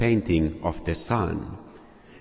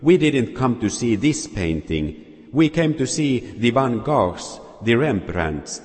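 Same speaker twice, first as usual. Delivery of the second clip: angry; 4 semitones higher than usual. Acted. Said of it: "Another voice said angrily".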